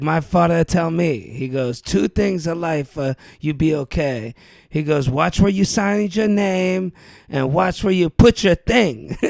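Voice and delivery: put-on heavy Greek accent, old man; old Greek man giving advice, Greek accent. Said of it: "his Greek accent real heavy".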